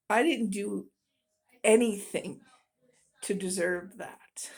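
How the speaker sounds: breathy whisper, trailing off. Real, not acted. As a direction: let it fall to a whisper. Retelling her hurt reaction.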